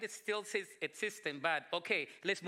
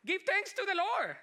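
much higher, louder exclamation; retold exclamation, pitched way up high; exclaimed praise; 13 semitones higher, 5 dB louder than usual. Pastor answering a worried church lady, exclaimed praise. Acted reply to worrying lady.

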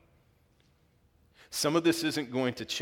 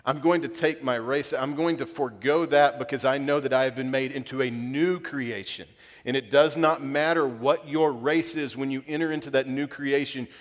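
impassioned, raised preaching voice; worked up; 3 semitones higher, 5 dB louder than usual. Real, not acted. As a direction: drive each point home with rising fervour. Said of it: "I'm getting worked up".

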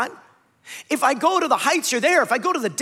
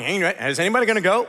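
lightly voiced nervous Saul; 4 semitones lower, much faster than usual. Saul voiced in retold story.

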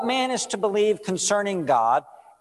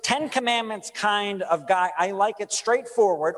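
straightforward guy; 4 semitones higher than usual. Retold or imitated.

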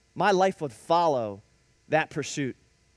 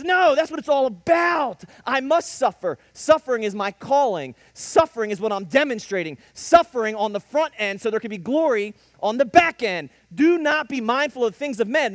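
louder, forceful preaching voice; firm declaration; 3 semitones higher, 4 dB louder than usual. Acted. Jesus declaring to Peter that suffering is his calling. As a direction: proclaim it with conviction.

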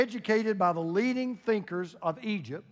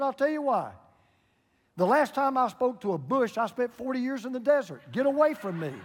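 higher-pitched mock exasperation; acted annoyance, pitched up; irritated; 4 semitones higher than usual. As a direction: deliver the grievance as an annoyed punchline. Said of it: "Why are you so irritated?".

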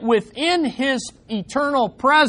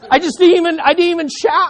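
laughing confession; 8 semitones higher, 5 dB louder, faster than usual. Real, not acted. Laughing at his own story.

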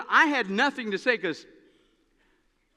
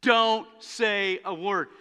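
fed-up Paul; 3 semitones higher than usual. Retold or imitated. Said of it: "that's why Paul says".

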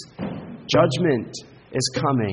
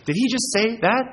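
shocked crowd; 10 semitones higher than usual. Retold or imitated. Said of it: "just gasping".

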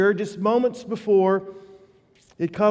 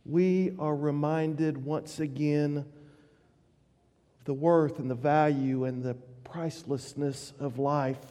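solemn hush; 5 semitones lower, 7 dB quieter than usual. Real, not acted. Solemn reflection after tragedy.

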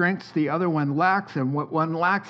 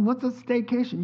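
incredulous question; 8 semitones higher than usual. Retold or imitated. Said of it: "I'm like".

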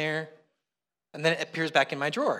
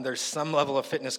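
"some" pointedly emphasized; stress on "some"; 4 semitones lower, 3 dB quieter than usual. Real, not acted. Preacher admitting modest fitness, stressing "some". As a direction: lean on the word "some". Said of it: "I emphasize the word some".

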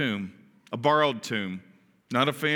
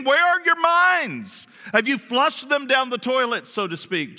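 mock rebuke; 6 semitones higher than usual. Jesus scolding the disciples on the road, rising rebuke. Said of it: "rebukes them".

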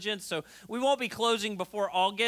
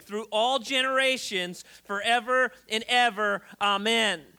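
scripture reading. Acted. Reads scripture aloud.

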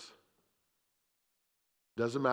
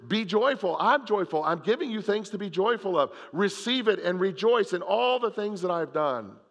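higher, louder, fired-up preaching; preaching at full force; 8 semitones higher, 4 dB louder than usual. Acted. Preacher rallying the congregation to joy. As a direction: lift the room with it.

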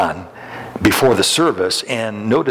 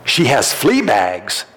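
shocked; 3 semitones higher, slower than usual. Retold or imitated. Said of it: "shockingly said".

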